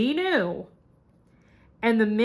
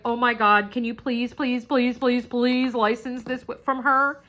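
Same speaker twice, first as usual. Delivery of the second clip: mildly hammed-up pleading; a touch of urgent pleading; eager begging; 4 semitones higher, 4 dB louder than usual. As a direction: run the pleases together like a begging fan. Begging Nicole to license it.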